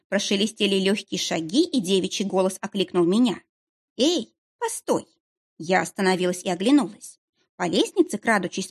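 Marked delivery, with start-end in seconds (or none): 4.0-5.1 slow, high call after her. A narrator's reading. Girl on the stairs calling after the visitor.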